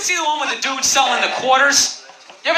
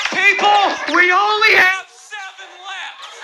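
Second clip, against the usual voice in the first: hyped-up TV salesman, pitched up; imitating an overexcited quarter seller; mock yelling pitchman; 3 semitones higher than usual. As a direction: sell it like a late-night infomercial host. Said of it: "like, yelling to me".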